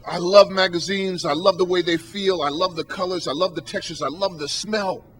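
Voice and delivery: softening, savoring each thing he loves. Retold or imitated. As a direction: linger fondly over each item. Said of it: "he goes just like this".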